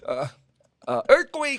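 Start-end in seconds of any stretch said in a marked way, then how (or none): 1.0-1.6 loud high earthquake alarm; sudden loud alarm cry; shouted warning. Retold or imitated. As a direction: yell it to scare soldiers. Cory shouts a calamity.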